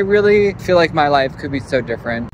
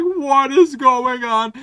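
higher, slow, drawn-out disbelief; alarmed disbelief; 7 semitones higher, much slower than usual. Retold or imitated. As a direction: stretch it out like you can't believe your eyes. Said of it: "I'm like".

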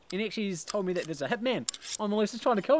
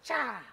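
stab noise; 4 semitones higher, 4 dB quieter than usual. Shown as a demonstration. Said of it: "And you're like".

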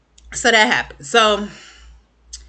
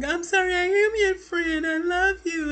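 mock tearful apology; 12 semitones higher than usual. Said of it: "crying with her".

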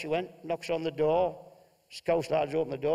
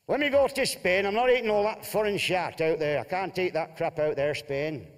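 a raised, blustering northern husband; gruff Bolton husband; 3 semitones higher than usual. Acted. Telling Martha he won't eat Spanish food. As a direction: bluster like a fussy holidaymaker.

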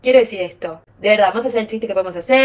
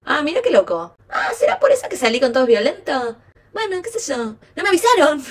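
mock realization; 4 semitones higher than usual. Telling followers what she said after therapy, mock realization. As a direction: play innocent late discovery. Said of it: "Qué loco, dije".

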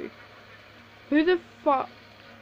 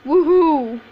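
excited whoop; 2 semitones higher, 7 dB louder than usual. Real, not acted. Cheering in game.

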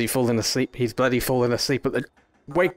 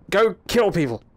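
mock authority; 7 semitones higher than usual. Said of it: "That's authority".

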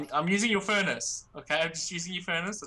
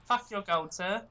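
ungrateful beggar; 5 semitones higher, slower than usual. Acted. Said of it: "choosiest beggar I've ever seen".

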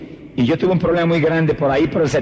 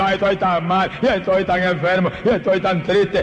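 higher-pitched mock whining complaint; mock self-pity; 4 semitones higher than usual. Preacher mimics a believer moping about being ill and sad, mock self-pity. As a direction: imitate a wretched, defeated believer. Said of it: "hecho un guiñapo".

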